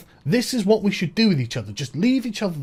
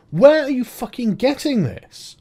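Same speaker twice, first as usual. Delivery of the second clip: exasperated outburst; 4 semitones higher, 4 dB louder, slower than usual. Retold or imitated. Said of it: "I'm like".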